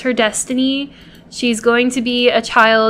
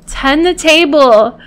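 slow, exasperated order; frustrated command; 3 semitones higher, 4 dB louder than usual. Real, not acted. Frustrated player shouting at her Sim to tend the table. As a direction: snap the order out, fed up. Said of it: "I'm getting so frustrated".

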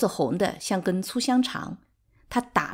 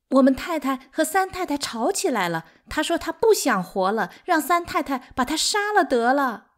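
urgent, higher-pitched breathless report; out of breath; 7 semitones higher, 4 dB louder than usual. A narrator's reading. Maid running in to report a quarrel, out of breath. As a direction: blurt the news out while catching your breath. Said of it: "喘息着说".

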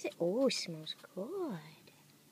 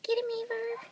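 yelling from the sidelines; 10 semitones higher than usual. Real, not acted. Urging the dog on.

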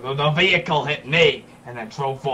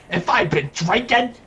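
indignant; 2 semitones higher than usual. Acted. Cat owner complaining to police about drinking question, indignant. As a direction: build up outraged disbelief.

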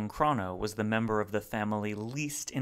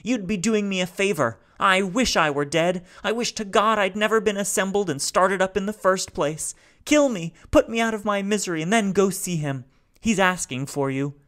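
high, loud, rasping despair; raspy robot; 10 semitones higher, 8 dB louder than usual. A narrator's reading. Grieving robot begs the family to kill him, raspy and high. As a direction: rasp it out, begging to die.

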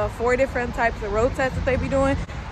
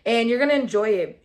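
news reporter voice; 3 semitones lower than usual. Acted. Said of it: "talking like a motherfucking news reporter".

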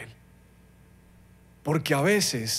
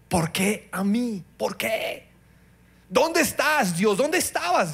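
anguished complaint; 4 semitones higher than usual. Acted. Preacher voices anguished complaint to God.

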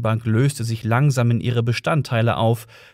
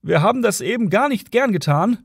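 high-pitched apologetic calling out; mild policeman's shout; 9 semitones higher than usual. A narrator's reading. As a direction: call it across as the other cop. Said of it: "schrie der andere Polizist".

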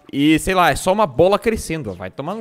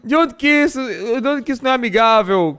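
higher, fast indignant complaint; outraged rant; 7 semitones higher than usual. Real, not acted. Player betrayed by the friendly planet, high indignant rant. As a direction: rant in disbelief.

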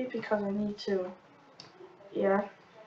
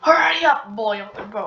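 urging shout; 10 dB louder than usual. Real, not acted. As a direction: shout to rush the order.

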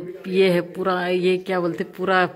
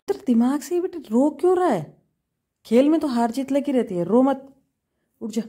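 firm consoling; 6 semitones higher than usual. Real, not acted. Mother consoling crying son. (रोते बेटे को ज़ोर से डाँटते हुए समझाना)

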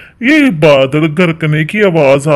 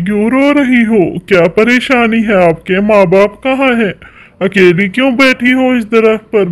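gentle coaxing; 3 semitones higher than usual. Acted. Husband comforts crying orphan girl.

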